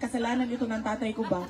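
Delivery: laughing at her own cockroach fear, blaming dad in jest; joking. Pretend. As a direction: toss it off as a laughing joke at herself. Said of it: "And I think".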